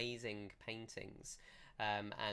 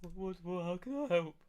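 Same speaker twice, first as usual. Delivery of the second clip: high, eager character voice, getting louder; gangly blacksmith; 8 semitones higher, 4 dB louder than usual. Acted. Blacksmith called over by the visitors, eager high-voiced offer. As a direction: stumble into an eager offer of help. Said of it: "gangly-looking guy".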